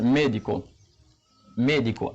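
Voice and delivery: "médico" with the stress on the first syllable, ME. Shown as a demonstration. Teacher showing a written accent example, "médico" stressed on ME. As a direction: lean on ME, then let di-co follow in "médico". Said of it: "Accent tonique là, on trouve là".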